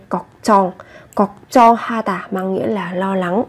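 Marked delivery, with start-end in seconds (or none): 0.1-0.7 걱정 with a doubled, tense ch sound on 정; 걱정, second syllable starting on a hard tense ch; tensed consonant. Shown as a demonstration. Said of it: "Gấp đôi phụ âm chờ lên".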